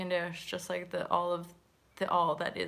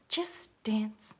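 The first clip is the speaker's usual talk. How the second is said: whispered urging; 3 dB quieter than usual. Real, not acted. Urging viewers to put music on, whispered. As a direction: breath-only whisper. Repeats her suggestion as a whisper.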